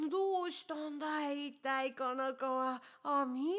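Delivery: a hint of a bemused old farmer; puzzled old man. Old man asking Ami about the boy, puzzled.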